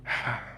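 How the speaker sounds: acted sigh before speaking; weary sigh. Granny looks over at the innkeepers, sighing. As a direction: let out an audible breath. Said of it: "and she sort of sighs".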